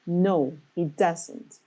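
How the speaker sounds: slow answer, "No" and "doesn't" both emphasized; deliberate stress on "No" and "doesn't". Shown as a demonstration. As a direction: draw out "No", lean on "doesn't". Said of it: "So you put emphasis".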